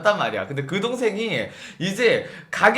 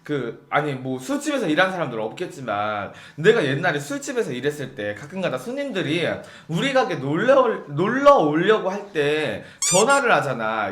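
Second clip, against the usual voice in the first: ordinary delivery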